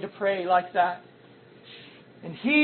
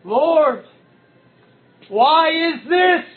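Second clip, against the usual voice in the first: a high, slow, pleading cry to the Lord; trembling cry; 4 semitones higher, 4 dB louder, much slower than usual. Acted. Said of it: "I trembling cried".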